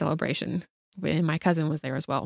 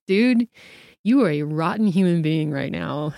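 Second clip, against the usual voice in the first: scolding outburst; 4 dB louder than usual. Retold or imitated. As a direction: let him have it, half laughing. Retold scolding of brother in car.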